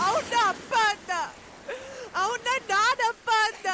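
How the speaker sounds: crying. Acted. Maya weeps to her friend about her father, sobbing. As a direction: sob it out, breaking on the words. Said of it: "ಅಳ್ಬೇಡ ಮಾಯಾ".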